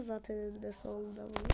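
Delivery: fast hushed whisper; quick whisper. Real, not acted. Gamer sneaking up on a house, whispering quickly.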